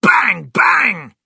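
two high, shouted bangs; sudden explosive shouting; gunshot bangs. A narrator's reading. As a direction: fire off two loud shots with the voice. Narrator voices more gunshots.

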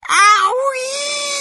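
very high, loud, drawn-out yowl of pain; shouted yelp. A narrator's reading. Grandma swallows the medicine, long high shriek. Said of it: "shouted Grandma".

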